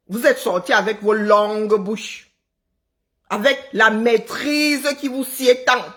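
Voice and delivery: drawn-out mock praise; sarcastic. Real, not acted. Vlogger mocking compatriots who criticized a singer's cover, sarcastic. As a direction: praise their skill with slow, deliberate sarcasm. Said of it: "Là, c'est du sarcasme".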